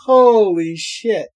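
loud exclamation. Real, not acted. Laughing fit aftermath.

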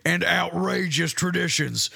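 measured Southern storyteller; lightly theatrical children's story reading; storytelling. Acted. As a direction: tell it like a folk tale, drawing out the ending. Tells his children's story.

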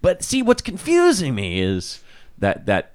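a hint of Columbo; Columbo-style detective. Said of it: "she's like".

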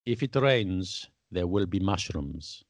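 slow, deliberate mock Russian accent; lightly put-on Russian accent, drawn out slowly; a hint of a Russian accent for a proverb. Shown as a demonstration. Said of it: "shall I do it with a Russian accent?".

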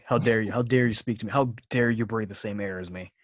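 haughty, loud mock fury; a scornful villainess scolding a peasant; evil queen. Mock outrage at co-host.

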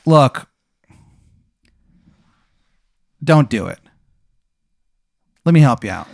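lightly hammed-up Maryland accent; a touch of awful Maryland accent, offering help; bad Maryland accent. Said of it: "worst Maryland accent you've ever heard".

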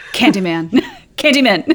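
giggling through the name; laughing summons. Pretend. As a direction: call the name while laughing.

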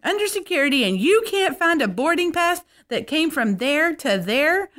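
wag a finger and lecture them like a diva; diva scolding. Retold or imitated. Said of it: "she's wagging it at those people".

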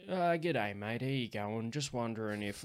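a hint of country Aussie drawl; laconic outback drawl. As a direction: lightly imitate the farmer caller. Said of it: "all with that same style of voice".

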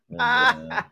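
normal talking voice

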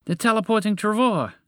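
high-pitched, awed toucan greeting; lofty, reverent exclamation. Acted. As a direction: hail a revered dragon by title. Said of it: "greeted the large dragon reverently".

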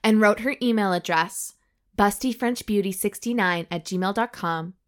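measured audiobook-style reading; story narration. A narrator's reading. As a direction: read the racy tale out deliberately. Reads the story aloud.

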